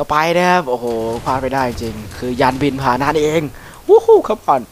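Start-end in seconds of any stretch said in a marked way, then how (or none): 3.9-4.2 loud, high whoop of delight; excited whoop. Real, not acted. Gamer whooping at his new aircraft, a loud high cheer. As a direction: whoop it out, thrilled.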